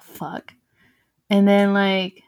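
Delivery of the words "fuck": breathless whispered swear under the breath; a hushed frightened fuck; whispered curse. Retold or imitated. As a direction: let it slip out as a scared whisper. Cousin scared, swearing under breath.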